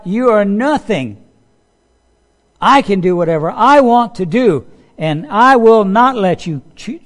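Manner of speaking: God rebuking Nebuchadnezzar; a hint of God rebuking. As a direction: thunder it down at a proud king. God's voice rebuking the king.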